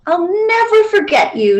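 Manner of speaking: a lightly voiced child; little girl's goodbye. A narrator's reading. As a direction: promise it like a sad child.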